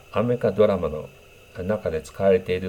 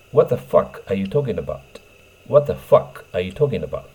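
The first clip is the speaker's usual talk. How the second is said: crude vulgar demo; 3 dB louder than usual. Shown as a demonstration. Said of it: "これは最悪です".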